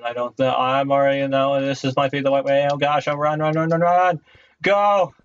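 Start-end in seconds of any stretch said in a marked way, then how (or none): 2.7-5.1 panicked yell, high and loud; yelling while running away. Real, not acted. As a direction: shout it while fleeing in panic. Fleeing mobs, panicked.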